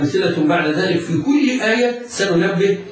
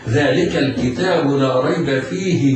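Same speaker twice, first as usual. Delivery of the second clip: Quran recitation. Shown as a demonstration. Teacher reciting the verse for students, melodic tajweed. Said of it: "وحكمه عند حفص الإظهار".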